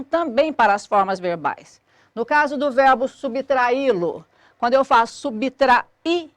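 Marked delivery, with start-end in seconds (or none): 5.1-6.3 "subtrair" broken up, with the final I standing alone; teacher splitting "subtrair" before its stressed I; syllable by syllable. Shown as a demonstration. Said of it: "Esse I forma a sílaba sozinho".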